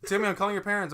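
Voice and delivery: high, loud exasperated threat; mock end-of-patience warning; fed-up babysitter. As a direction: raise your voice at a naughty kid. Acts fed-up babysitter threatening kid.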